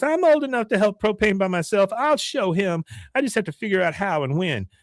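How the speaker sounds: high mock girl voice; imitated high-pitched niece; determined niece. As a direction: vow it up high, stubbornly. Tearful niece vows to act.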